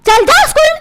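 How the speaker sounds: cross motherly order; scolding mother. Acted. Mother repeats order to son.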